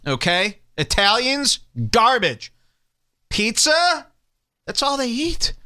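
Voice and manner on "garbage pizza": usual speaking voice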